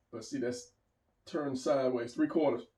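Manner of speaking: talking through hiccups; hiccuping mid-sentence. Real, not acted. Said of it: "I'm sorry, I'm hiccuping".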